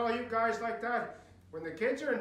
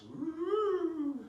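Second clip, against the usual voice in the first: mock cheer; 7 semitones higher than usual. Mock cheer about scary oligarchs.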